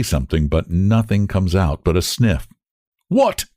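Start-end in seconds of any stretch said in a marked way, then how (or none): 3.1-3.4 high, sharp questioning what; a quick high query; inquiring. A narrator's reading. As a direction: ask it with a jump up in pitch. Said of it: "inquires the officer".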